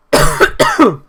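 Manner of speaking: a sharp high coughing fit; choking cough. Real, not acted. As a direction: cough hard, caught on air. Chokes mid-commentary.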